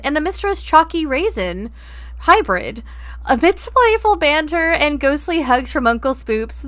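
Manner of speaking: nature documentary narrator voice. Pretend. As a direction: narrate chat like wildlife footage. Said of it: "That was poetic".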